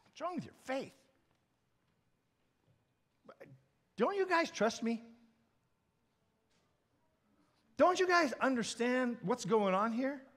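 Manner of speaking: hushed, questioning reproof; gentle Jesus. Acted. Jesus questioning his frightened disciples, gentle and hushed. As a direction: ask it softly, well under preaching volume.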